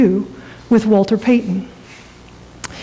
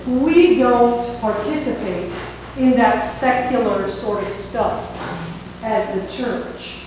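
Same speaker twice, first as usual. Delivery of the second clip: slow, deliberate pastor's pronouncement; lightly acted stern superior; measured refusal; 5 dB quieter, slower than usual. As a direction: spell out the rule slowly, sinking quieter. Superior pastor voiced refusing the card.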